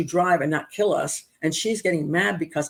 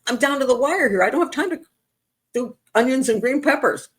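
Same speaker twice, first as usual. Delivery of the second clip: higher-pitched, exasperated retelling; retelling her rushed protest to her friend, frazzled and higher; 7 semitones higher than usual. Retold or imitated. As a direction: sound stretched thin and out of time. Retelling her panicked reply.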